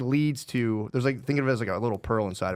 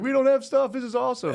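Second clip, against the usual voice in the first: put-on high, loud, gleeful kid voice; delighted kids; 5 dB louder than usual. Kids cheering to dad about the empty house, high and gleeful. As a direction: squeal it like a thrilled child.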